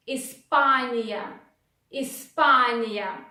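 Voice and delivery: Испания with the second А stressed. Shown as a demonstration. Teacher modelling the stress for learners, slowly. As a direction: lean on the А in Испания. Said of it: "again, А is stressed".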